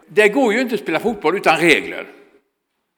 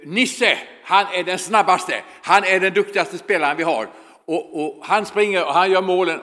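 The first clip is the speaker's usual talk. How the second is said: broken Swedish. Retold or imitated. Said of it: "talade väldigt dålig svenska".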